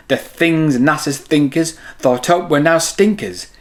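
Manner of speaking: lively storybook read-aloud; reading to children. A narrator's reading. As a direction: read it like bedtime story time for kids. Reads picture book to children.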